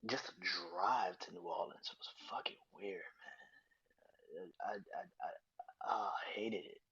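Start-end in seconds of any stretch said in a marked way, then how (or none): 4.6-6.8 crying, whispered through tears; a choked whisper as the tears come; voice breaking. Real, not acted. Choking up while telling of the drive to the funeral, voice breaking. Breaking down over father's death.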